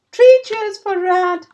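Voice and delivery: loud, slow rousing cheer; hearty cheer. Acted. The animals thanking Rat, loud cheer. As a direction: lead the cheer with full voice. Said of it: "they all cried".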